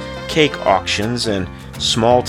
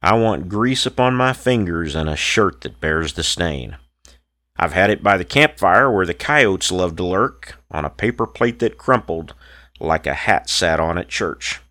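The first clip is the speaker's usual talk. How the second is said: rhythmic rhymed poem recital; cowboy poetry. Acted. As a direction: recite it like a campfire cowboy poet. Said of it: "This cowboy poem is called".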